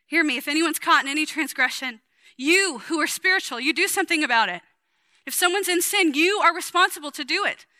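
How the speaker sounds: a hint of a fiery preacher voice; Paul exhorting. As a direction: urge the church like an angry apostle. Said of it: "There's an exhortation to the corporate body".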